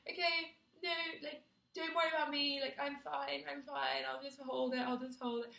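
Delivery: high, polite, self-effacing. Retold or imitated.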